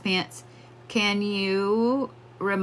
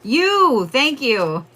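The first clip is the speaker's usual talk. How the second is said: higher, louder burst of gratitude; excited thanks; 7 semitones higher, 5 dB louder, much slower than usual. Real, not acted. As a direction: thank them like it just clicked. Sudden realization, thanking spirit.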